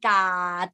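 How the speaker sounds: "กาด" with a long vowel cut by a final stop; low, stopped "กาด"; dead ending. Shown as a demonstration. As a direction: stop the sound at the end of "กาด". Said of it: "The sound stop".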